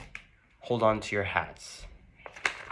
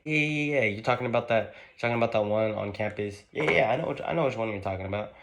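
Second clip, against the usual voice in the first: higher, louder, tumbling yeah-yeahs; eager recognition; 3 semitones higher, 5 dB louder, faster than usual. Acted. Friend hearing about the sorority house, eagerly recognizing it. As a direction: jump in excitedly, words rushing out.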